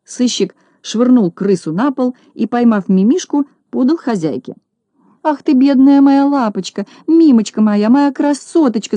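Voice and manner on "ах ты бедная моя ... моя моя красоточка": high, loud fussing lament; wailing over pet. Acted. Lady fussing over her rescued dog, high wailing. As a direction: coo and wail over the little dog. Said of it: "запричитала хозяйка".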